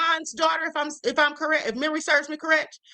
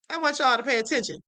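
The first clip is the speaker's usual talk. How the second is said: quick repeat; faster than usual. Shown as a demonstration. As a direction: rattle it off again quickly.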